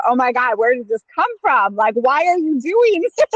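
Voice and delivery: retold baffled protest, climbing high; mock bewilderment. Onlookers questioning her sudden outburst, mock bewilderment. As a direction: imitate startled onlookers, pitch rising into a laugh.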